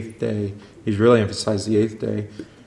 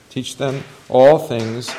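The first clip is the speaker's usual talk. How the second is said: proclaiming; 2 semitones higher, 5 dB louder, much slower than usual. Acted. Quoting Matthew emphatically.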